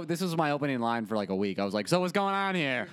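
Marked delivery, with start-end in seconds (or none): 1.9-2.9 put-on old-timey cop. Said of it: "like an old-timey cop".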